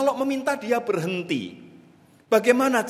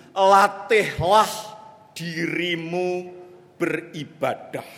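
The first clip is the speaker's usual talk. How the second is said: exhortation; slower than usual. Acted. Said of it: "Rasul Paulus berseru".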